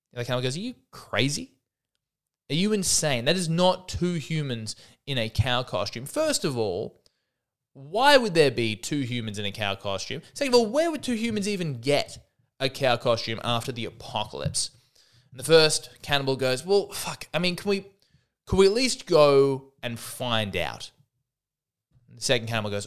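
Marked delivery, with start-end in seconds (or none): 0.6-14.7 indignant disbelief, stretching the words; incredulous cannibal. Acted. Cannibal argues in acted disbelief. 16.7-20.9 exasperated plea, slowing at the end; acted frustrated appeal, drawn out; pleading cannibal. First cannibal pleads to check.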